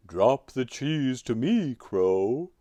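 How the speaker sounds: loud put-on elephant voice; little elephant. A narrator's reading. Elephant ordering crow to drop cheese, demanding. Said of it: "said the elephant".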